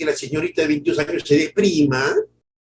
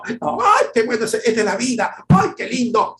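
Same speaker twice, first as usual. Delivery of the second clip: much higher, squealed ay; playful mock rapture; mock delight; 9 semitones higher, 3 dB louder than usual. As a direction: ham up a partygoer loving the swing. Mocking someone enjoying music.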